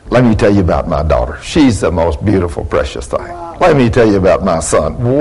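low, softening, tenderly bragging; proud parent. Acted. Parent telling people about a daughter, tender pride. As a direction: drop low and gentle, doting on the child.

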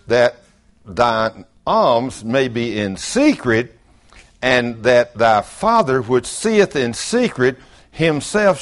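slow, measured King James reading; solemn scripture recital. Acted. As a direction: read the verse with reverence.

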